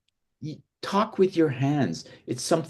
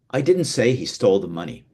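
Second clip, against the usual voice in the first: emphasis on the first word "I"; stress on I; 3 dB louder, faster than usual. Shown as a demonstration. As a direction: lean on "I" at the start, rest falls away. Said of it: "by how you say each individual word".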